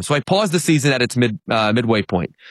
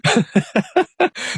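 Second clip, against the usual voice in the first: real amused chuckle, higher-pitched; laughing; 9 semitones higher than usual. Real, not acted. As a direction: chuckle at how comical it is. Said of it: "apologize in advance if I'm laughing".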